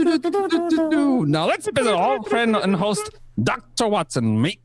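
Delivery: put-on Kiwi accent.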